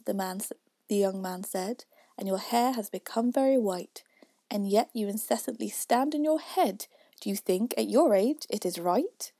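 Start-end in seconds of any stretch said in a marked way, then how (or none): 2.2-9.3 poem recitation. A narrator's reading.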